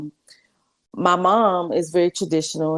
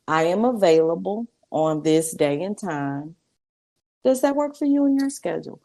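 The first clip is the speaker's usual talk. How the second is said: polite firm statement. Shown as a demonstration. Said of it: "communication is a statement".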